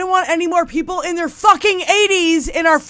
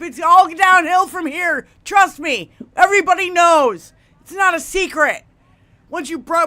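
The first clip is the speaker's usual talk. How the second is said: raised scolding voice; telling off; 4 semitones higher, 3 dB louder than usual. Pretend. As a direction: yell at her to retire. Younger generation telling Nancy off.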